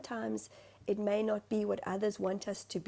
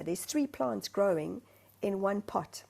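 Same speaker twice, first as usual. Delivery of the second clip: ordinary delivery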